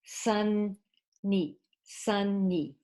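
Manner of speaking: "Sunny" slow with a held n, SUN-ny; syllables shown clearly. Shown as a demonstration. Teacher to students, demonstrating "Sunny" has two syllables. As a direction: stretch the n in "Sunny" so both syllables ring out. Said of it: "Two syllables".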